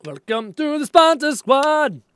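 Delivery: high, slow announcer welcome; sponsor squad welcome. Real, not acted. Streamer welcomes new sponsor with a high slow call. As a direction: sing out the catchphrase to viewers. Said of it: "I just like saying it".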